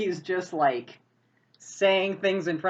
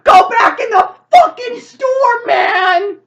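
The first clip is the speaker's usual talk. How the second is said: slow, full-volume high scream; frantic screamed order; 16 dB louder, slower than usual. Acted. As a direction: scream it like holding someone at gunpoint. Carrie orders driver at gunpoint.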